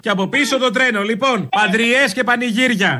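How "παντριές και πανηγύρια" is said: laughing through the words, slowly; slow amused laugh. Acted. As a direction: chuckle it out mockingly. Laughing mock celebration.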